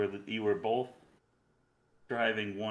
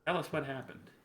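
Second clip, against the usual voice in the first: eager barkeep; 4 semitones higher than usual. Acted. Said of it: "he's like".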